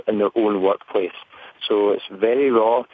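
ordinary talk, nothing marked

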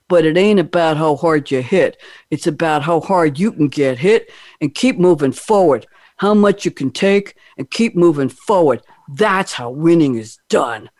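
put-on lightly done Philly Rocky Balboa accent; a modest stab at Rocky's Philadelphia accent; hint of a Rocky impression. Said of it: "I'm gonna try to do this in a, in a Rocky accent".

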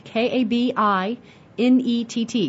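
K A B I, letter by letter, slowly; spelling the word aloud; spelled out. Shown as a demonstration. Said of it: "look for the word cabinet".

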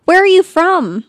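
loud, high, exaggerated astonished question; imitating a random guy. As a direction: blurt it like a nosy stranger. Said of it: "he's like".

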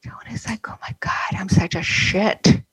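hushed unvoiced whisper; whispered aside. Real, not acted. Medium whispering a guilty confession to the host, hushed whisper. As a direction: whisper it to the listener only. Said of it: "whispered aside".

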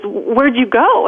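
slow, worried mother's question; mother drawing it out, searching for her lost child; mom asking. Retold or imitated. Mother finds her lost daughter in the store, slow and worried. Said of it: "she says".

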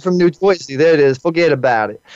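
mock New York accent; tossed-off New York accent impression. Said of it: "let me hear your best New York accent".

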